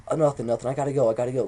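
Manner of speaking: acted evasive dismissal; hurried brush-off. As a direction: get off the phone in a hurry. Hurriedly brushing off friend on phone.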